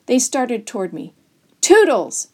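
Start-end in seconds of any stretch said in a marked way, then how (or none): 1.6-2.3 high, loud call to a dog; storybook yell of TOODLES; shouted call. A narrator's reading. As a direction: shout for the dog, falling at the end. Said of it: "I shouted".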